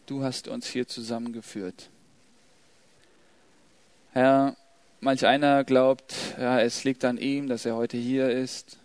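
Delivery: ruhiges, leises Gebet vor der Gemeinde. Real, not acted. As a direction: sprich demütig und gesammelt zu Gott. (andächtiges Gebet, gedämpft und getragen)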